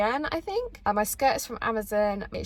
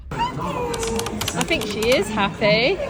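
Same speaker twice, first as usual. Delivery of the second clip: cooing at the dog; 5 semitones higher, 8 dB louder, much slower than usual. Real, not acted. Cooing over the dog Willow.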